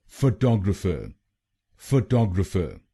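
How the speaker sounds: फोटोग्राफर with the second syllable TOG leaned on; फोटोग्राफर stressed on TOG, the other syllables light. Shown as a demonstration. Teacher modelling the stress: फोटोग्राफर stressed on TOG. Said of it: "दूसरे शब्दांश पर ... जोर डालना है".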